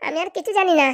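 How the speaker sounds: a put-on tearful whimper; mock sobbing. Wife turns on fake tears against her husband, mock sobbing. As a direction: fake a crying break to win the fight.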